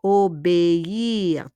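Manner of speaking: "Obéir" slowly in three syllables, o-bé-ir; accented E sounded. Shown as a demonstration. Teacher repeats the verb after the rule, é fully sounded. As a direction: draw out "Obéir" with a clear é. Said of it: "on prononce le E".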